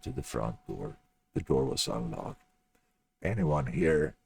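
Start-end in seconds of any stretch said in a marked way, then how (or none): 3.2-4.1 raised voice into an empty house; calling out. A narrator's reading. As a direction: call out to check if anyone's home. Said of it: "John yelled out".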